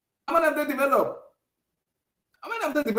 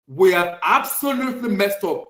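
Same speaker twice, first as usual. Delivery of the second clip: confessing club. Pretend. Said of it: "look into the mirror and tell the whole world".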